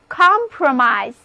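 "compromise" with the last I said as "eye"; long I ending. Shown as a demonstration. Teacher models "compromise" for learners, long I in last syllable. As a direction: end "compromise" like the word "eyes", long I. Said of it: "最后的I字母发音变作I的本字母音".

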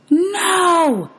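a grief-struck, high-pitched wail; anguished cry. Acted. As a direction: cry out in despair as she vanishes. Mother dissolves before his eyes.

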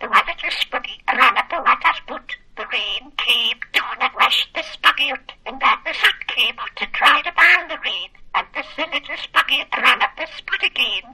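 budgie reciting in Geordie; squawky little bird with a Geordie accent. Real, not acted. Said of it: "say in a Geordie accent".

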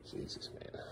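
barely audible, unvoiced grumble; exasperated mutter. Real, not acted. Dad left upstairs after sending kid down, exasperated mutter. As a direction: mutter it under your breath, very softly.

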